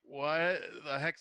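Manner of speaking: slow, mildly baffled reaction; retold bewilderment. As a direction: act out drawn-out confusion. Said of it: "I'm like".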